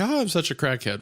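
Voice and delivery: a hint of airy, self-amused girl; white girl voice. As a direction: toss it off as a mock white-girl boast. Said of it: "is that like the white girl".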